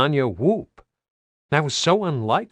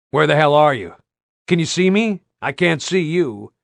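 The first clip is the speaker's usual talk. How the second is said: shouting; 4 semitones higher, 5 dB louder than usual. Acted. Shouting to locate comrade.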